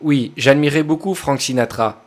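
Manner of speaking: mild news voice-over delivery. Shown as a demonstration. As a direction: read it like a TV voice-over. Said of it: "Non, c'est plutôt le ton".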